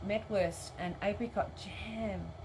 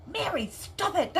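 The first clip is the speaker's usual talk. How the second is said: higher mock scold through laughter; laughing scolding; 10 semitones higher, 5 dB louder than usual. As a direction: tell Mary off while cracking up. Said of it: "And I'm like".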